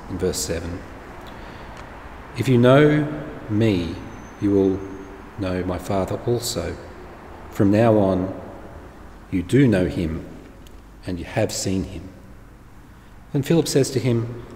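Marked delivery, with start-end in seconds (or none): 2.4-12.1 scripture reading. Acted. Reads Jesus's words in sermon.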